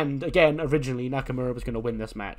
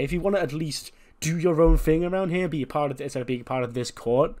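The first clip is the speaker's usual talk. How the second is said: scolding Charlotte; 3 semitones higher, 3 dB louder than usual. Retold or imitated. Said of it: "And Charlotte goes".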